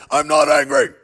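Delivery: loud, comically forced shout; mock angry yell. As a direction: yell the denial for laughs.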